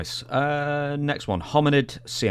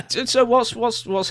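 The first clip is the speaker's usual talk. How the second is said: laughing through words; 13 semitones higher than usual. Real, not acted. Co-host cracking up at the shower joke, laughing out the words. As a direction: still laughing as he starts to ask.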